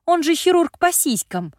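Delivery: sudden high loud outburst; excited exclaim. Acted. Sister exclaims in realization.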